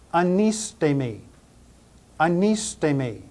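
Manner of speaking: "anistemi" said ah-NEE-stay-mee, syllables clear; pronunciation demo. Shown as a demonstration. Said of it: "pronounce them all again".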